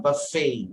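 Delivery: "buffet" with subtle stress on FAY; stress on last part. Shown as a demonstration. Teacher showing where the stress falls, last-syllable stress. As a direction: lean gently on the second syllable of "buffet". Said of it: "a subtle stress on the last part".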